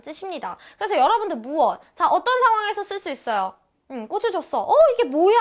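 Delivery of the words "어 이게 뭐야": high, loud mock-startled question; pretend surprise. Someone just handed flowers, feigning surprise. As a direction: act astonished at what you are handed. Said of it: "놀라는 척 할 때도".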